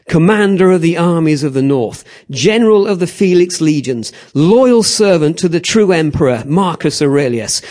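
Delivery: loud, building proclamation of vengeance; Maximus. Acted. Murdered family's avenger facing the emperor, loud and defiant. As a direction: declaim each title forcefully, vowing revenge. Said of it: "and he goes".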